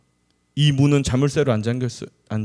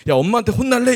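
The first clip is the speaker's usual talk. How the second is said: much higher, imitated scold; a mother's playful threat, pitched up high; mock scolding mother; 10 semitones higher, 4 dB louder, faster than usual. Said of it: "이렇게 말해야 되는데". (아이를 혼내는 엄마 흉내, 높은 목소리)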